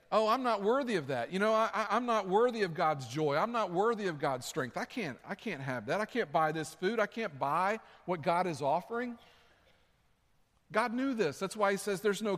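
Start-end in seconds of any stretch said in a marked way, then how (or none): 0.1-9.2 mock unworthy believer. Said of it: "some of us would be tempted to say".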